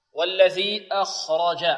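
slow "أخرج" with light hamza, heavy kha and ra, light jim. Shown as a demonstration. Teacher models the verse, "أخرج" with light hamza, heavy kha. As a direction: recite "أخرج" as akh-raw-ja, measured. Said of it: "والخاء مفخمة".

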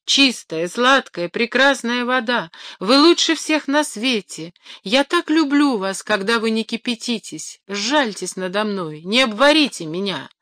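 flattering plea. Acted. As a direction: sweet-talk the water to save yourself. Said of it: "закричал тринадцатый".

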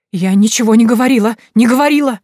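loud, high, stress on не; panicked denial. A narrator's reading. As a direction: deny it screaming. (истеричное отрицание)

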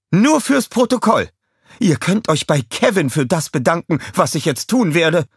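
high, loud threatening villain voice; menacing villain. Acted. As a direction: threaten them with mock politeness.

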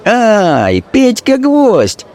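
high, drawn-out shriek of a name; a tavern girl hailing Petka; Masha crying out. Acted. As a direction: cry his name out slowly, high. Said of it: "вскрикнула курносая Машка".

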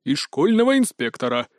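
small creature voice, puffed up; huffy fat scribe. Acted. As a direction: bristle like a plump little critter. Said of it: "нахохлился толстый писец". (надувшись, голосом толстого писца)

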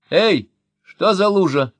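high, loud, slow call; shouting from the doorway. A narrator's reading. Daughter shouting from the doorway, high loud call. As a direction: call out across the room. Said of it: "закричала она с порога".

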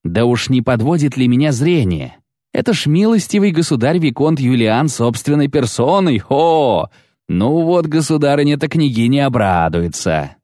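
high, exclaiming knight's voice; gloating amazement. A narrator's reading. Baron recognising Julian in person, amazed exclamation. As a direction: marvel aloud at who stands there.

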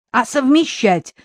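high, loud plea; pleading. A narrator's reading. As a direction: beg him impatiently. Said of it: "взмолилась Дуся".

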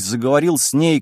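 plain reading voice

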